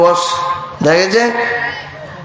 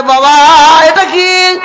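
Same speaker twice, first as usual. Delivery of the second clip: a lightly voiced small boy, high; little boy asks his father, pitched up; child asking; 7 semitones higher, 4 dB louder, slower than usual. Small son asking father about peacock, lightly voiced child.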